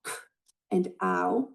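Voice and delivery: k and ow said as separate sounds; sounds split apart. Shown as a demonstration. Teacher isolating the sounds of cow, sounds split apart. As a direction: pull k and ow apart, one at a time. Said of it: "For example".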